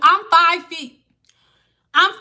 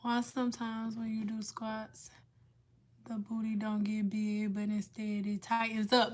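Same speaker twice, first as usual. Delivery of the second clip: reading a question; 4 semitones lower, 15 dB quieter than usual. Acted.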